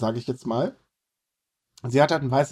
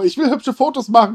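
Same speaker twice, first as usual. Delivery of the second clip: mock idol voice; 8 semitones higher, 6 dB louder than usual. Imitating the idol's wish.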